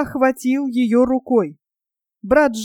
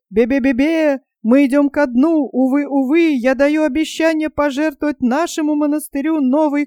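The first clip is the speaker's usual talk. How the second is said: terrified whimpering; 3 semitones higher than usual. Acted. Panurge panics as the ship starts leaking. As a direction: vow and beg in panic.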